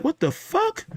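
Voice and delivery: high, startled what the fuck; shocked disbelief. Retold or imitated. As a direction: jump way up in pitch, caught off guard. Realizing the sweat is blood.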